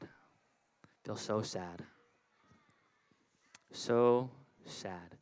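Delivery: slow, droopy mock-sad sigh of a voice. Shown as a demonstration. Pastor acting sad for the children, slow and mopey. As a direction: drag it out like a sulking kid.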